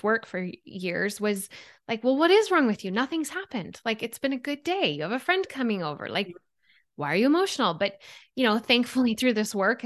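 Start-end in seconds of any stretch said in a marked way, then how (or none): 2.0-7.7 impatient scolding. Retold or imitated. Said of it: "in my instinct, you know, my old instinct".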